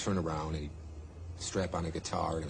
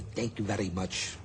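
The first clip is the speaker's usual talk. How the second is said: little voice. Retold or imitated. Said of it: "little voice".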